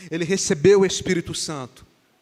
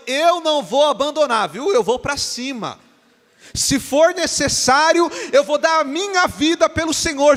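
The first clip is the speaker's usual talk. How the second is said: bold boast; 6 semitones higher, 5 dB louder than usual. Acted. Peter boasting to Jesus he'll never leave, loud proud vow. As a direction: swear it proudly, chest out, pitched up high.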